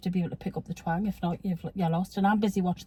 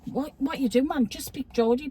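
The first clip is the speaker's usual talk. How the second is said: Geordie exasperation; 5 semitones higher than usual. Retold or imitated. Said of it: "Geordies trying to speak English".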